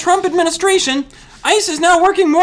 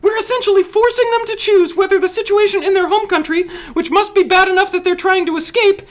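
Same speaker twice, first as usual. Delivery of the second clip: higher-pitched earnest explaining; raised pitch, earnest argument; 4 semitones higher than usual. Acted. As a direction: keep the voice lifted high. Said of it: "A little bit higher".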